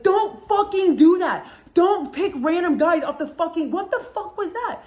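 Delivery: hammed-up scolding of your friend; mock outraged yell. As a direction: yell it in disbelief, dragging each word. Scolding friend, table dying laughing.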